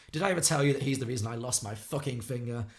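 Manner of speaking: acted drunken resentment, stressed opening; mock bitter outburst; resentful. Harry bitterly blaming Perry for his lost finger, resentful. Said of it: "he gets very resentful".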